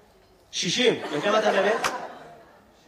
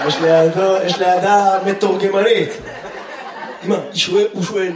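loud announcement; 4 semitones lower, 4 dB louder than usual. Real, not acted. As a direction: announce it to the room, booming. Announces translator.

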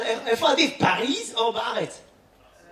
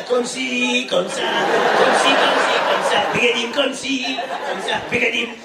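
mock French accent. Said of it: "קומסי קומסה".

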